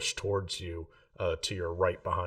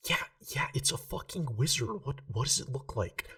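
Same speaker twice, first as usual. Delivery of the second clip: put-on drunk loud whisper; 6 semitones higher than usual. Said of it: "this loud whisper voice".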